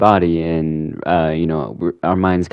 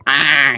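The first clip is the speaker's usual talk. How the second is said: short high-pitched "ah"; mock cry; 8 semitones higher, 4 dB louder than usual. Retelling a villain's reaction, mock high cry. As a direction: imitate a sudden cry, higher than usual. Joker voiced crying out in retelling.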